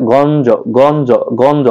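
"গঞ্জ" with the final vowel held long; drawn-out vowel. Shown as a demonstration. Teacher showing students when a word takes u-kar, drawn-out vowel. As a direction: stretch out the end of "গঞ্জ". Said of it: "টেনে উচ্চারণ দীর্ঘ করা লাগে".

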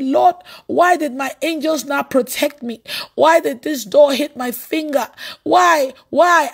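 retold angry protest, pitched slightly up; angry shouting. Preacher retelling a complaint to God over a hurt finger, angry shouting. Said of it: "I was shouting this".

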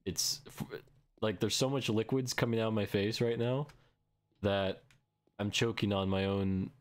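talking with a stuffy nose; sick, stuffed-up voice; blocked nose. Real, not acted. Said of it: "I have really bad sniffos right now".

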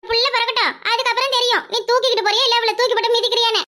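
a touch of village-gossip mockery; taunting neighbour. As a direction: needle the doting husband. Neighbour taunts the doting husband.

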